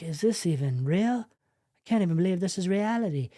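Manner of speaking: lightly mimed incredulity, voice rising; mock-stunned inner monologue; acted disbelief. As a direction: play someone doubting what they see. Acts out the stunned querent's thoughts.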